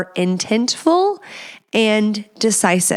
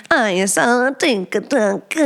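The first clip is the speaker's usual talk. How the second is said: slow put-on Italian-style accent; sing-song mock Italian accent. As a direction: play at an Italian accent, drawn out. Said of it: "I need to find a new accent".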